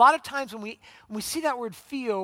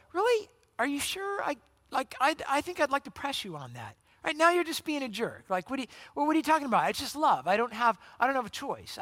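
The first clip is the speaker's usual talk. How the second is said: mock jerk questioning; 5 semitones higher than usual. Mock jerk pressing a friend.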